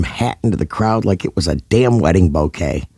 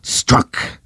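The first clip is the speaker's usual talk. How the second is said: screamed. A narrator's reading. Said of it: "Karen screamed".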